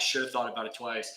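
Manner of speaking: scolding himself quietly; quiet repeat. Shown as a demonstration. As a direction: drop the voice and mutter the regret.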